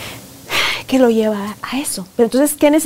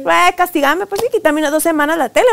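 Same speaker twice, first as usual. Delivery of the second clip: a lightly voiced child, higher, shrugging off punishment; mock bored child; 5 semitones higher than usual. A mother voicing her son daring her to punish him, mock careless. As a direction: toss it off like a kid who no longer cares.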